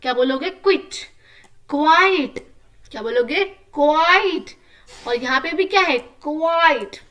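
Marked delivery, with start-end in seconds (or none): 0.5-1.0 क्विट said high and crisp; model word aloud. Shown as a demonstration. Teacher drilling class, high clear call. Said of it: "तेज तेज बोलना है". 1.7-7.0 क्वाइट called out high and loud; model word aloud. Shown as a demonstration. Teacher drilling class, loud high model word. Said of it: "तेज तेज बोलना है".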